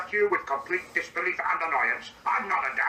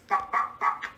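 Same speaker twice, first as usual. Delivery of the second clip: flat quoted clucks; slower than usual. Retold or imitated. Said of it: "What do you mean".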